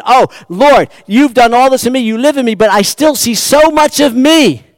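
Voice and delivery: high, loud, fervent plea; pleading cry to God. Acted. Preacher voicing Wesley's loud, fervent cry to God. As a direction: cry out to God to erase the self. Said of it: "He's saying".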